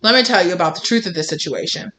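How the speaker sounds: a hint of a smug know-it-all, fast; lightly voiced lecturing nerd. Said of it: "they put their glasses down on their nose and they're like".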